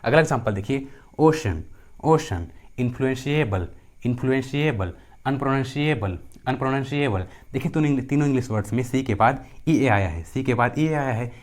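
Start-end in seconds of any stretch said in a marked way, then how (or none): 1.2-7.3 "ओशन" and the longer words with sh for C; C pronounced as sh. Shown as a demonstration. Teacher showing C before EA, careful sh demonstration. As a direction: model "ओशन, इन्फ्लुएंशिएबल" one word at a time, clear sh. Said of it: "सी का उच्चारण क्या होता है".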